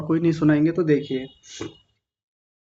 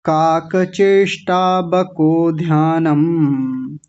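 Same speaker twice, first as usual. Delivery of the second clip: slow, connected Sanskrit shloka recitation; flowing recitation; much slower than usual. Shown as a demonstration. Teacher demonstrating the verse in flow, slow chant. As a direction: recite in a continuous flow, vowels held long. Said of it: "एक बार प्रवाह से देख लीजिए".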